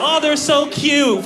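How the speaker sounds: put-on high, drawn-out cooing over a baby; mock gushing. Mimicking people who won't admit babies are trash, mock gushing. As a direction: gush loudly and slowly, sending it up.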